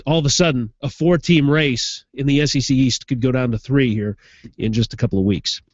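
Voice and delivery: stuffed-up sinus voice; blocked nose. Real, not acted. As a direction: talk through a blocked nose. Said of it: "I gotta apologize for my voice".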